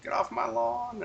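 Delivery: high-pitched mock outburst; mock indignant order. Host imitates Herschel telling them to leave, mock indignant.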